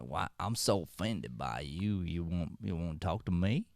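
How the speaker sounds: a hint of a slow, hurt old cowboy; lightly voiced offended old man, slowish; grandpa cowboy. Mocking offended people, lightly voiced grandpa cowboy. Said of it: "Is that a grandpa cowboy?".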